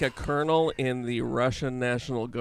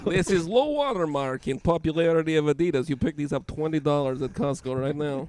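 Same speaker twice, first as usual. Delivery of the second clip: mock Russian accent. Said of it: "It's not even a good Russian accent".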